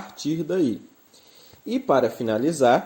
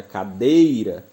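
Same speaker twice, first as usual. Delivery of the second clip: "cadeira" with a loud, stretched "dei"; "cadeira", swelling on the next-to-last syllable; stress on DEI; 4 semitones lower, 5 dB louder, much slower than usual. Shown as a demonstration. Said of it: "sílaba mais forte ela encontrar-se na penúltima".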